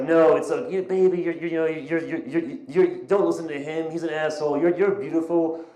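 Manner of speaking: lightly imitated tipsy friend, stumbling over repeats; consoling drunk friend. Tipsy woman consoling her crying friend, lightly imitated. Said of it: "more sober but still drunk friend, like, consoling her".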